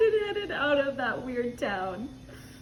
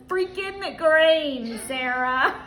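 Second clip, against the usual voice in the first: slow, drawn-out grumble; exasperated; much slower than usual. Retold or imitated. Husband tells Sarah, slow and fed up. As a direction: drag it out, fed up. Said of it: "To which he responds".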